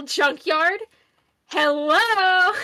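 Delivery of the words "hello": high, loud, drawn-out greeting; playful swooning hello. Pretend. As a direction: call out a mock-smitten hello.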